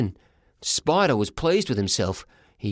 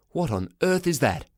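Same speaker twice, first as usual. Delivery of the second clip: baffled father; 4 semitones higher than usual. Acted. Father spots cat hat.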